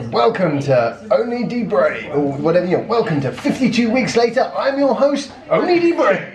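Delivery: hammed-up presenter intro; big showy welcome; over the top host. Shown as a demonstration. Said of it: "really go over the top".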